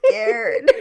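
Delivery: put-on high squeaky laughing little girl. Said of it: "She's like".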